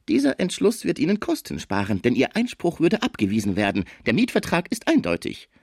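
somewhat high-pitched lawyer voice; lightly voiced dreadful lawyer; schrecklicher Fraisier. (leicht gespielter Anwalt, höhere Stimme)

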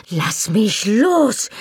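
high, drawn-out screech. A narrator's reading. Wife struggling against husband's shaking, screeching. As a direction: screech it out, stretching each word. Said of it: "kreischte ich".

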